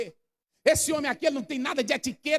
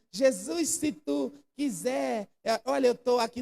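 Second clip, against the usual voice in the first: casual plea; slower than usual. Shown as a demonstration. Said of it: "não".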